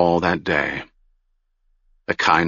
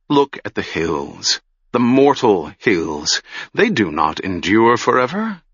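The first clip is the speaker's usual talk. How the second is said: changed voice. Acted. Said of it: "went on in a changed voice".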